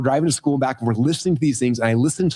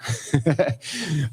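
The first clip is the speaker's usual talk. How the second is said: breathless laugh; 4 dB quieter than usual. Real, not acted. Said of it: "I'm out of breath".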